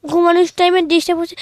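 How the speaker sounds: fast, whiny crying complaint; crying whine. Acted. Sleepy pupil woken by the teacher, crying and whining. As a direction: whimper it through tears. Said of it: "কথায় কথায় কান্দে".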